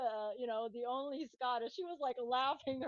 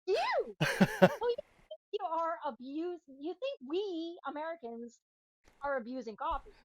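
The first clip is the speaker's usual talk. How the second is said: higher, incredulous mock voice of the friends; 7 semitones higher, 4 dB louder than usual. Friends scoffing at her coffee abuse claim, hammed-up incredulous voice. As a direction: ham up their disbelief.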